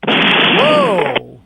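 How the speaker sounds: surprised whoa. Real, not acted. Reacts to hairpiece line.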